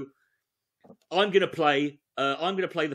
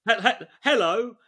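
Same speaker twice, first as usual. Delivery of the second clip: awkward wingman opener. Acted. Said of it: "don't open with that".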